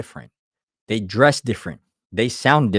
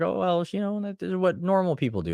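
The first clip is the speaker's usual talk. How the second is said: higher, prim mock reply; 8 semitones higher, 3 dB quieter than usual. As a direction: mimic a smug know-it-all. Others' reply, voiced higher.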